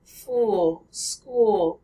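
"fool", "school" with an American oo. Shown as a demonstration. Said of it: "the American oo".

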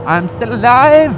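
high, slow cry of relief; relieved exclaim. Real, not acted. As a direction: burst out with relief. Relief after near miss on bike.

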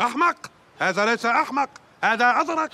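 formal standard arabic. Acted. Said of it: "العربية الفصحى".

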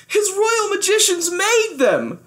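high, slow urgent blurt; a high, breathless urgent report; pitched high and pressing. Acted.

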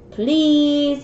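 a light pleading please; begging. Acted. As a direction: coax a friend mildly. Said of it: "begged Tigger".

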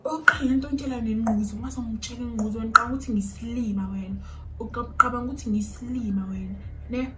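fast, loud imitated rant at her; angry rant. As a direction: mimic his furious fast scolding. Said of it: "he's literally swearing and going off".

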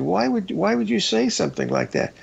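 high, upset demand; retold startled protest; upset outburst. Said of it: "I came unglued".

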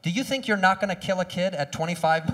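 normal talking voice

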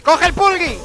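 loud, high yell of urgency; shouted, high-pitched urge; shouted urging. Real, not acted. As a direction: yell it at yourself, desperate. Urging himself to grab item.

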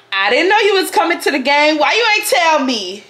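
Stanley's gushing. Acted. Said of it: "he's literally like".

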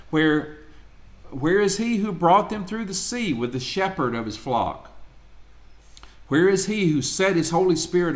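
measured, solemn Bible reading; scripture reading. Acted. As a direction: read it out like a lector. Reads Isaiah aloud to class.

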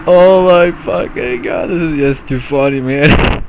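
loud high shriek into laughter; bursting laughter. Real, not acted. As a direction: explode into laughter.

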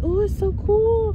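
high, mock-awed pupil voice; kids hyping. Pupils admiring teacher's new hair, hyping. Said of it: "the kids was hyping me up".

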